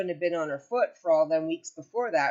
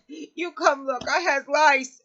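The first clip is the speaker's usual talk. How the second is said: insistent mother; 8 semitones higher, 5 dB louder, slower than usual. Retold or imitated. Mother voiced, insisting on lice.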